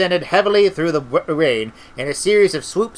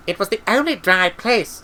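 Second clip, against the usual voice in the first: higher character voice for Treatle; defensive explanation; 5 semitones higher than usual. A narrator's reading. Treatle excusing the library, high and defensive.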